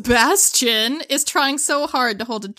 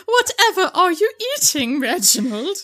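posh British voice; 3 semitones higher than usual. Pretend. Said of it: "talking stupid".

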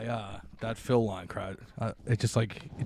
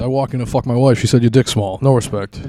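Rodney Dangerfield voice; 2 semitones higher, 8 dB louder than usual. Pretend. Rodney Dangerfield-style bit.

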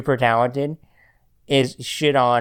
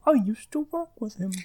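higher, prim, frosty radio voice; NPR-style imitation; 10 semitones higher, 4 dB quieter than usual. Host imitating cohost in a frosty NPR voice. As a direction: mimic her frosty NPR delivery. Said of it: "a perfect impression of you".

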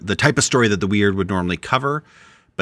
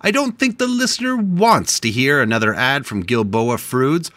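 higher-pitched, hammed-up objection; mock indignant protest; 5 semitones higher than usual. Host refusing his partner before the show, mock indignant. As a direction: protest theatrically, as if caught mid-argument.

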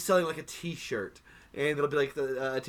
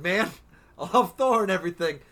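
excited; 3 semitones higher, 3 dB louder than usual. Retold or imitated. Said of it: "and I'm like".

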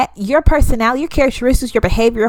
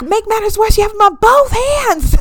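exasperated tease; 9 semitones higher than usual. Retold or imitated. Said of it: "they're like".

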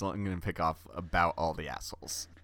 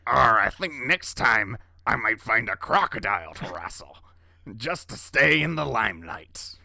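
put-on Australian accent; 3 semitones higher, 7 dB louder than usual. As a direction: play a rugged Australian bloke. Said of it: "your Australian accent is off the hook".

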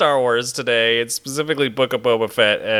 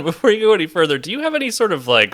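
robotic voice effect. Real, not acted. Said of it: "vocal effect that you've applied to your voice".

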